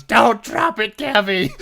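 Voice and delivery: high, very loud mock scream; hammed-up villain scream. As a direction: yell it at the top of your lungs. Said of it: "screaming on the top of your lungs".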